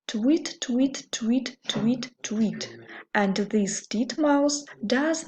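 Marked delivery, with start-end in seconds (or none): 0.1-2.8 bird chirp. Acted. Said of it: "The bird flies and says".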